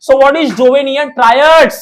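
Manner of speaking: slow, deliberate dictation; dictating. Shown as a demonstration. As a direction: spell out the question for notes. Dictating exam question slowly. (Notes के लिए धीरे-धीरे बोलना)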